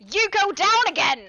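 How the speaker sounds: frustrated shout. Real, not acted. Frustrated yell at game enemy.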